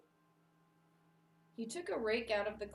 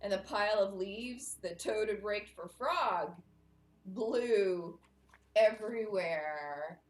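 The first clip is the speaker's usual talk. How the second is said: dramatic story narration; 4 dB louder than usual. A narrator's reading. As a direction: draw out the key words for listeners. Reads a story to children.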